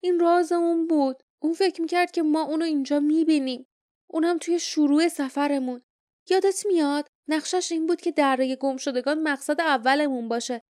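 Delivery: lightly voiced young adventurer explaining the plan; young hero.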